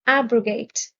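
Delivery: ABrogate, first syllable stressed. Shown as a demonstration. Vocabulary teacher repeating the word for learners, stress on AB. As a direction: model Abrogate with weight up front. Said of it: "The stress is on the first syllable".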